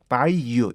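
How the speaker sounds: "by you" linked as one unit; linked pronunciation. Shown as a demonstration. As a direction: run "by" straight into "you" without a break. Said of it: "이렇게 연결이 돼야 돼요".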